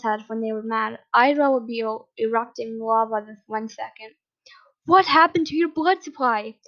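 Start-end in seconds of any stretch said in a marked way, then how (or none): 4.9-6.6 loud, higher, exasperated demand; angry scolding. A narrator's reading. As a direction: scold him with a raised voice. Enraged father scolds son.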